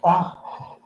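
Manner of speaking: sudden sneeze mid-lecture; real sneeze burst; sneezing. Real, not acted. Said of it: "Me dio un ataque de estornudos".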